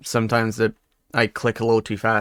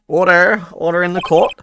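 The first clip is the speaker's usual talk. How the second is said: raised, higher courtroom call; judge calling order; 4 semitones higher, 4 dB louder than usual. Acted. Judge restoring order in the court, firmly calling out.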